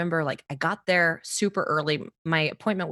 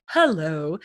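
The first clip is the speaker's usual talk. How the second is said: mock professional hello. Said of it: "not gonna try to be like".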